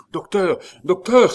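high, loud urgent call; crying out. A narrator's reading. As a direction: call out to find him. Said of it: "s'écria Biot". (appel crié, aigu et pressant)

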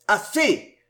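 harsh. Acted. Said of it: "interrompit durement le marquis".

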